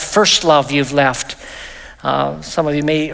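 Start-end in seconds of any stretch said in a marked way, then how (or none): 0.0-1.4 slow, weighted "First love" up front; deliberate emphasis on "First love"; stress on "First love". Shown as a demonstration. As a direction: lean on "First love" before the rest. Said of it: "It puts the emphasis on the fact".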